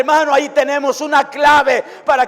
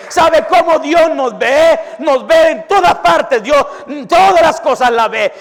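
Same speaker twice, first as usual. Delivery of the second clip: fiery preaching. Acted. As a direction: preach it out to the congregation. Preaching at full force.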